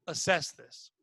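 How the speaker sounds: low, soft, discreet instruction; quiet urging. Retold or imitated. Manager quietly sends employee to a spill, hushed urging. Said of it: "she's quietly saying it".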